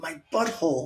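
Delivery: barely audible, hushed, very quiet whisper. Recalling waiting among people and cops, reenacting a whisper to her. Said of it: "I'm like whispering to her".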